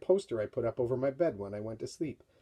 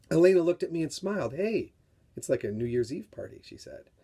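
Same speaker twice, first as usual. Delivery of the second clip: dramatic read-aloud of a novel excerpt; story reading. A narrator's reading. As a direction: read it like a tense story for young readers. Author reads book excerpt aloud.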